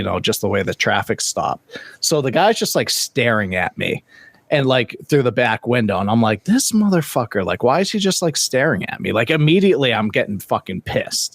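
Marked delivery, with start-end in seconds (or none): 6.4-9.1 pitched-up irritated mock thought, higher; a retold burst of road rage; annoyed inner rant. Angry inner voice at driver.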